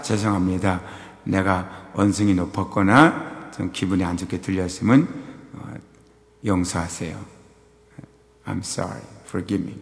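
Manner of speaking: sincere apology. Retold or imitated. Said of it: "사과를 해서 사과하는 게 아니라".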